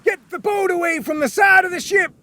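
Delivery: shouted order. Acted. Captain ordering rowers away from the sinking ship, shout. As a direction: bark the order to row away. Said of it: "shouted the captain".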